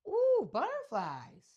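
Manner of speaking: high, slow starry-eyed ooh; high slow mock wonder; dreamy awe. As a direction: marvel like a daydreaming girl. Mimics dreamy daughter.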